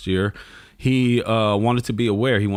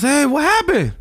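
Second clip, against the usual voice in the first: put-on high, louder puzzled teen; son's voice; 5 dB louder than usual. Son asking his parents what happened, high and louder. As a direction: ask it high and confused. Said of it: "you gotta do the, the, the voices".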